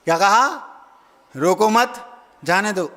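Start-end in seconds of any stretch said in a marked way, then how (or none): 1.4-2.9 group "रोको मत" together, then "जाने दो"; "रोको मत" as one unit, "जाने दो" apart; pause after मत. Shown as a demonstration. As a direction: keep मत with रोको, then break. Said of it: "अर्थ का सही मीनिंग नहीं निकाल पाते".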